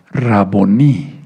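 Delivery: Raboní, aguda, con la fuerza en la í final; acento en la I. Shown as a demonstration. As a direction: di "Raboní" cargando la última sílaba. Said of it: "con acento en la I". (acento al final, en la í de Raboní)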